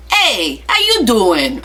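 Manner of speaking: imitating a Jersey Italian greeting, lightly; mock Italian accent. Mocking the boyfriend's Italian hello to his face. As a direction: tease him with a hammed-up Italian hello. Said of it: "I go, he knows I'm making fun of him".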